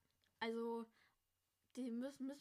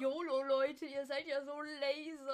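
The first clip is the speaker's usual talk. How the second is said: try-hard teacher slang; 4 dB louder than usual. Acted. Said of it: "Lehrer, der auf Krampf Jugendpolizei".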